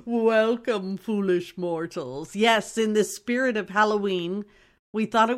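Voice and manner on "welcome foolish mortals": a half-hearted try at the ghost host. Acted. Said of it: "I can't make my voice do that".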